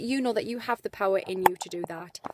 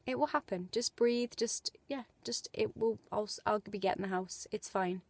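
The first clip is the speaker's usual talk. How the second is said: soothing self-talk; 6 dB quieter than usual. Retold or imitated. Calming herself about the house.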